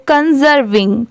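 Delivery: "कंजर्विंग" as con-zer-ving, with a Z; syllables joined. Shown as a demonstration. Teacher joining three parts for learners, "कंजर्विंग" said with a Z. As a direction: blend "कंजर्विंग" from its three parts into one word. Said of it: "तीनों को मिला देंगे".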